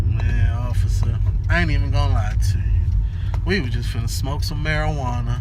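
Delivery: confessing to officer. Retold or imitated. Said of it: "he said it just like this".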